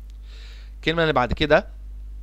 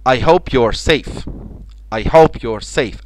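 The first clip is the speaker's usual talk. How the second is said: very slow, with each word drawn out; very slow model sentence; much slower than usual. Shown as a demonstration. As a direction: model it slowly twice. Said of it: "الكلمة اللي بعد كده safe".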